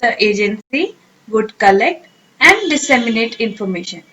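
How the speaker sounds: the wind corrugates the surface of the sea read very slowly and clearly; careful teacher read of the example sentence; slow model sentence. Shown as a demonstration. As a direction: read it out word by word for learners. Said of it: "sentence में कैसे use करेंगे".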